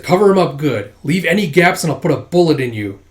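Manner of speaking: threatening hijacker. Acted. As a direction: order the kids around menacingly.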